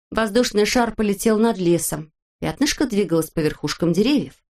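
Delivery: ordinary delivery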